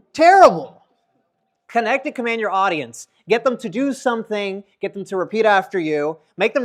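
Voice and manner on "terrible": loud, high exclamation; emphatic verdict. Real, not acted. Speaker condemning boring lectures, loud and emphatic. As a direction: punch it out loudly.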